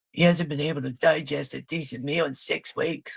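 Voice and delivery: a lightly voiced fussy wife; mocking the wife. Mocking the wife's fussing over her husband's meals, lightly voiced. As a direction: mimic the nagging wife, only a touch.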